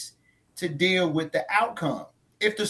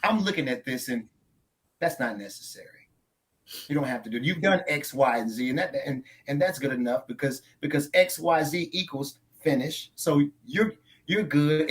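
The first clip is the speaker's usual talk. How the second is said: smug know-it-all; 5 semitones lower than usual. Retold or imitated. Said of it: "And so they go".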